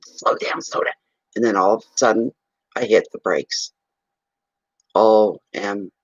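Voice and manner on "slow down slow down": whispered warning. Retold or imitated. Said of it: "I'm hearing".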